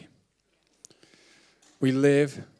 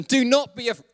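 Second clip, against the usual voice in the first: verse cut off by a real laugh, higher; breaking into laughter; 10 semitones higher, 4 dB louder than usual. Real, not acted. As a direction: lose it mid-word with a giggle.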